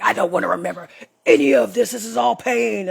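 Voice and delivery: childish protest, lightly voiced; upset inner child. Inner child refusing to remember the pain, lightly voiced upset child.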